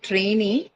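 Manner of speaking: "trainee" with weight on the closing "ee"; stress on second syllable. Shown as a demonstration. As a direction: stress the long last vowel of "trainee". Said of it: "shift the stress to the second syllable".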